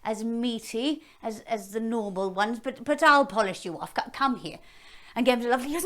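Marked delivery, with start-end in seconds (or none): 0.0-4.6 hammed-up hungry dragon. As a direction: savour them like a snack. Dragon voiced in story.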